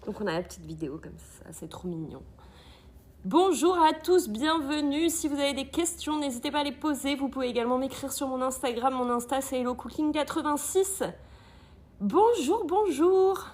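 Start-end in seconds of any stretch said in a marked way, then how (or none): 3.2-5.1 welcoming greeting. Real, not acted. Greeting viewers. 12.0-13.5 cheerful greeting. Real, not acted. Greeting arriving viewers.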